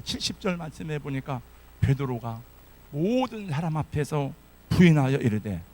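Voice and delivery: normal talking voice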